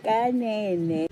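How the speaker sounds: high shouting cry of disbelief; shocked outcry. Retold or imitated. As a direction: cry out in stunned outrage. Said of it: "I'm like".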